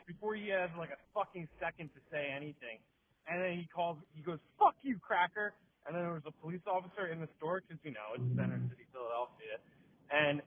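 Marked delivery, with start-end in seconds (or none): 4.6-5.5 louder, higher mock outburst; retold angry insult. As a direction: throw the insult like the rebuffed beggar.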